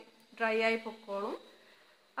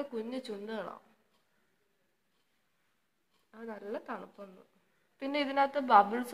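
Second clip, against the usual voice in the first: face covered by wet mask; talking while smoothing mask; through a sheet mask; 4 dB louder than usual. Real, not acted. Seen 1: Wet sheet mask covers face and lips throughout; references show bare face.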